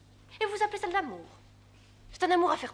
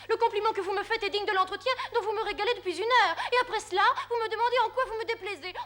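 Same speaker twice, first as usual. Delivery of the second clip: mocking laugh; 3 semitones higher, 3 dB louder than usual. Countess mocks her jealous suitor.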